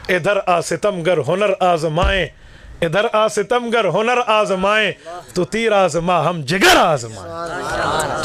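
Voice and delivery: slow, declaimed couplet; poetic recitation. Acted. Preacher recites a defiant couplet to the crowd, slow and declaimed. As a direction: recite the verse slowly, savouring it.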